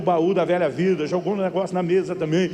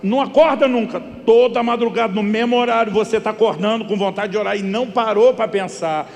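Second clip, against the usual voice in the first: louder and higher, exasperated scolding; loud rebuke; 5 semitones higher, 6 dB louder than usual. Retold or imitated. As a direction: tell him off, laughing at the absurdity. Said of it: "Eu olhei pra ele e falei".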